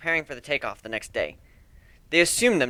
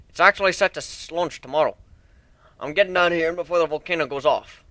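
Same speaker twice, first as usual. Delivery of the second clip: lightly voiced proud shipbuilder; 4 semitones higher than usual. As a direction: show off your ship like a proud craftsman. Steelhorn's voice, minotaur shipbuilder.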